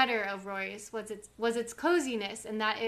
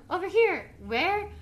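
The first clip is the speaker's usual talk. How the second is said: higher and louder, a stern mother calling; Mrs Kim calling out; 8 semitones higher, 5 dB louder than usual. Retold or imitated. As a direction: call it out across the shop. Acting out Mrs Kim's shout.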